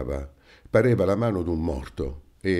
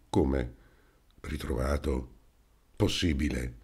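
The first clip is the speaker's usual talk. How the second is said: astonished; 4 semitones lower, 5 dB quieter than usual. A narrator's reading. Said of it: "Restarono trasecolati tutti e tre".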